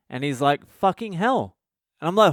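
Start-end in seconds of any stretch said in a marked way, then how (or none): 0.7-1.6 high-pitched imitation of a small child; innocent little kid. Acts out kid repeating swear.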